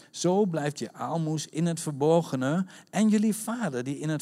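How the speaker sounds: emphatic, declamatory Bible reading; scripture reading. Real, not acted. Preacher reading Jesus' teaching to the congregation, declamatory. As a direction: read the passage out firmly to a congregation.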